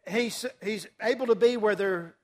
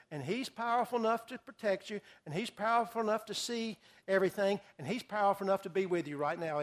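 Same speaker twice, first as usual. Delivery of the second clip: reassuring; 6 dB quieter than usual. Real, not acted. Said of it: "repeats for emphasis".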